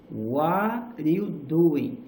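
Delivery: very drawn-out "What are you doing?" with a falling end; rise and fall intonation. Shown as a demonstration. Teacher repeating the example for learners, slow rise and fall. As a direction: lean on WHAT, let "doing" glide down. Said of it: "é esse sobe e desce".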